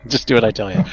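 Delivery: loud bossy church voice; mock stern authority. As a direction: bark it like a strict priest. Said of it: "As all Catholics get used to hearing".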